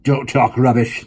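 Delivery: slow, loud deadpan retort; a stony father dismissing the offer; expressionless. Acted. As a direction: cut him off coldly. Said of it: "the man said, expressionless".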